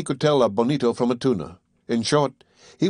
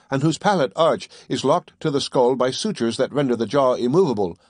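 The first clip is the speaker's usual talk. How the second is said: raised, precise lecturing voice; scholarly Conseil; 2 semitones higher than usual. Acted. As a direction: recite it like a tidy young scholar. Conseil reciting the classification.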